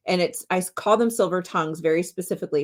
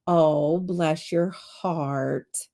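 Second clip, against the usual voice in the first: sweet southern bless; much slower than usual. Shown as a demonstration. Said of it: "Depending on how it's said, the tone".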